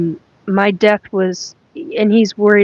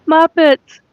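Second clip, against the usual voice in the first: high, loud burst of delight; real delighted shout; excited exclamation; 9 semitones higher, 5 dB louder than usual. Real, not acted. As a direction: blurt it out, thrilled. Delighted at spirit's answer.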